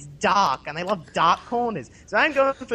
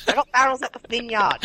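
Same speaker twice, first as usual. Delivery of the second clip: put-on Australian accent; 3 semitones higher than usual. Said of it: "Making me say barrels".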